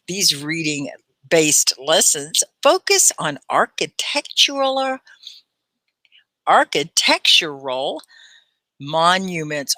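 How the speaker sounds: slow, articulated teacher reading; very clear read-aloud. Shown as a demonstration. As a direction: pause at the punctuation and shape every word. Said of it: "be sure and articulate".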